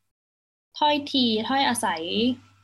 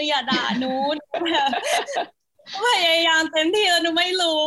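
higher, louder, half-laughing plea not to be scolded; laughing mock plea; 6 semitones higher, 5 dB louder than usual. Guest laughs while playfully begging online critics, mock plea. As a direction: giggle through a pretend whiny plea.

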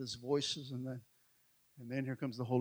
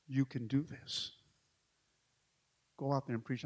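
encouragement; 2 semitones lower, 6 dB quieter than usual. Retold or imitated. Wife steadies him, acted tenderly.

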